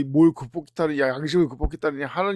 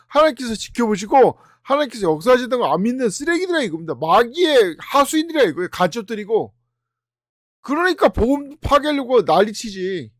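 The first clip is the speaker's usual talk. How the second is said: heated preaching; 3 semitones higher, 5 dB louder than usual. Real, not acted. Heated preaching against disbelief.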